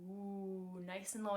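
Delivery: low, soft warm-up hum; nice and low. Shown as a demonstration. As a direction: settle the voice at the bottom. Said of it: "start really low with our bodies and our voices".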